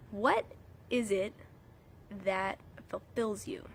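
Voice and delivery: whispering. Acted. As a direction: whisper it slowly to draw them in. Reflective question to viewers.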